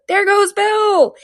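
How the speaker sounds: high, drawn-out loud cry; long, very high exclamation; crowd chorus shout. A narrator's reading. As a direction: call it out like a whole crowd. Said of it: "a general chorus of".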